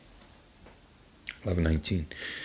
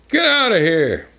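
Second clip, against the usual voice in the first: higher mock command; beast's order; 10 semitones higher, 4 dB louder than usual. Beast to intruder at his doorway, mock command. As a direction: imitate a beast ordering someone off. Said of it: "the beast is pointing, like".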